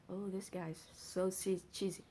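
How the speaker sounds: soft, amused teasing; amused aside. Real, not acted. Reader laughing at the poem's lover, soft amused aside. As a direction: tease the cheesy line under her breath. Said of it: "so cheesy".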